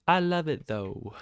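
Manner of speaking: high, loud burst of joy repeated; squealing delight again. Real, not acted. Excited trader loving the loss.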